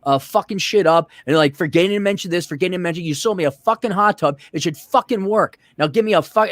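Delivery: exasperated, piling up the complaints; retold cursing tirade. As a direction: replay chewing out the salesman. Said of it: "I was cursing".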